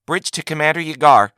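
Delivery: an unearthly voice from everywhere; disembodied voice. A narrator's reading. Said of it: "the distinctly feminine voice".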